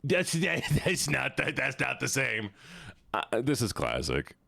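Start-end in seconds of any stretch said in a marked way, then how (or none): 0.0-2.5 squeaky laugh breaking the words; higher and slowed by laughter. Real, not acted. Streamer cracking up at fan art, laughing.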